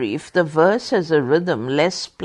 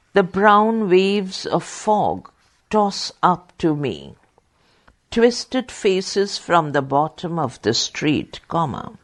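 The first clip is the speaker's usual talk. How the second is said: poem reading. Acted. Reads Eliot verse during dictation.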